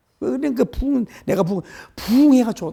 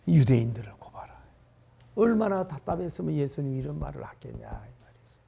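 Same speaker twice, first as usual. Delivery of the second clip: whisper; 4 semitones lower, 7 dB quieter than usual. Real, not acted. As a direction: drop to an unvoiced whisper. Sudden aside about Jesus' frustration.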